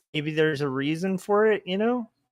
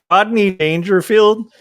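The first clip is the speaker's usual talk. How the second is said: hint of Rodney Dangerfield; 6 semitones higher, 9 dB louder than usual. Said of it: "Yeah, a little bit".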